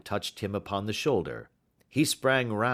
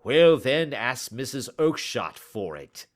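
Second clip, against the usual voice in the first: snapping; 4 semitones higher, 5 dB louder than usual. Acted. Angry salesman snapping back.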